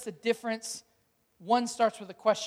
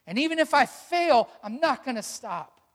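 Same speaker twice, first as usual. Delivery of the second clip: louder, higher defiance facing fear; preacher defying fear, fairly emphatic; defiant declaration; 3 semitones higher, 3 dB louder than usual. Acted. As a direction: stand up to fear out loud. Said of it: "look fear in the face and say".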